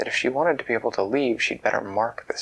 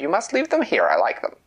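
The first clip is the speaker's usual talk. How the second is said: louder, a spoiled royal command; demanding queen; 5 semitones higher, 5 dB louder than usual. A narrator's reading. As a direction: she simply decides she wants them. Queen voiced in a story.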